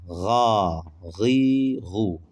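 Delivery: gargle Ga gi gu heavily; thick ghayn demo. Shown as a demonstration. Teacher showing the thick ghayn letter. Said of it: "gayn harfi bak kalın".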